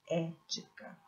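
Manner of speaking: "ética" split after a long first "é"; stress on É. Shown as a demonstration. Teacher pointing out the strong syllable, "ética" stressed on "é". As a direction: hold the opening syllable of "ética". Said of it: "a sílaba forte está na antepenúltima".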